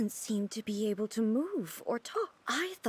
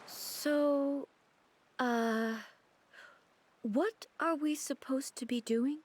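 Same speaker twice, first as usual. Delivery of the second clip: whisper; slower than usual. Acted. Whispered aside.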